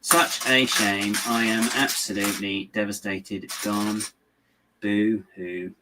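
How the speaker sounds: deadpan fake sorrow; mock devastated. Telling viewers a disliked ride is gone, sarcastic mock grief. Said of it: "Oh no, I'm not".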